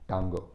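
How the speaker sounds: "Tango" sounded out by its letters as in Tamil; Tamil-style pronunciation. Shown as a demonstration. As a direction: say "Tango" with an open 'ah' vowel, transliterated. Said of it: "the Tamil spelling of tango".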